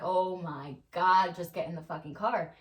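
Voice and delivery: worn-out mom at the car door, exasperated. Retold or imitated. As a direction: drag it out like you've had it. Mom retelling losing patience.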